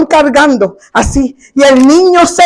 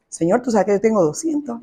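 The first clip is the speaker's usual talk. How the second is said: laughing prayer; 3 semitones lower, 9 dB quieter than usual. Retold or imitated. Quiet prayer recalled, laughing.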